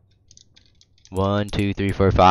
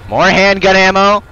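excited; 8 semitones higher, 5 dB louder than usual. Real, not acted. Excited loot find.

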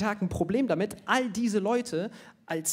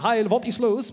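slow, drawn-out mock Nazi line, louder; mock comic Nazi; 5 semitones higher, 6 dB louder than usual. Comedian reading an old comic-book Nazi line to the audience, slow and hammed-up. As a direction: read it out like a silly comic speech bubble.

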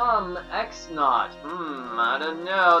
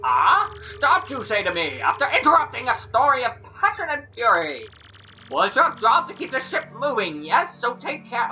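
put-on higher, drifts into old witch voice; wrong Flavio voice; 5 semitones higher than usual. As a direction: slip into a cranky old witch. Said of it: "that's the wrong voice ... Kammy Koopa voice".

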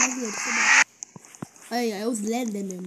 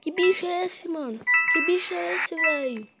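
panicking gamer; 6 semitones higher, 5 dB louder than usual. Real, not acted. Startled by monster.

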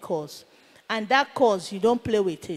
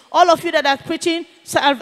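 commanding challenge; 4 semitones higher, 5 dB louder than usual. Retold or imitated. Acted challenge to the pastors.

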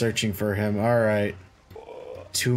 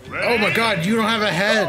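higher, louder startled cry; surprised; 7 semitones higher, 4 dB louder than usual. Real, not acted. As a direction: react in shock. Surprised at enemy.

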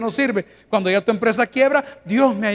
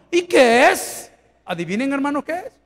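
emphatic question; 5 semitones higher, 3 dB louder than usual. Real, not acted. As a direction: stretch it out to challenge them. Rhetorical question to congregation.

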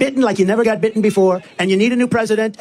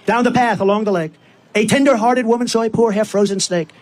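measured, rhythmic poem reading; storytelling in verse, line by line; poem recitation. Acted. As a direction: recite the verse to a crowd in steady cadence.

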